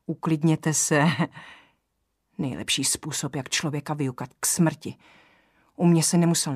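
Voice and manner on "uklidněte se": pomalu a konejšivě; uklidňuj ji pomalým klidným hlasem; chlácholivě. Acted. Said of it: "chlácholivě poklepal po ruce". (kapitán konejší vyděšenou ženu, pomalu a chlácholivě)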